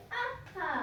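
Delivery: high, light "ha, ha"; storybook gloating laugh; mock laugh. Sheru laughs at fooling them again.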